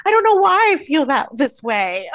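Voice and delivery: high, loud wail easing down; mock tearful whine. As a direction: imitate someone whining through tears. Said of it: "tearing up".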